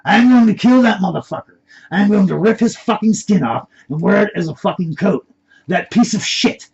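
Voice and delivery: loud, high-pitched enraged yelling; heated shouting with a Hispanic accent; screaming threats. Acted. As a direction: rant furiously at full voice. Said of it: "John could hear screaming".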